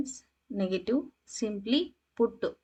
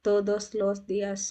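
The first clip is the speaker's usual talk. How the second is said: slow model phrase; much slower than usual. Shown as a demonstration. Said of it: "teacher models Spanish slowly".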